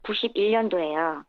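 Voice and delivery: electronically altered voice; voice changer. Real, not acted. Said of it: "익명 또 음성 변조를 해서 연결한다는".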